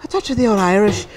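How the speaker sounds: put-on a touch of old Irish accent; Irish accent with breath in the words. Shown as a demonstration. Interviewer shows the actor her accents, light Irish accent. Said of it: "The Irish talk like they've got sort of breath".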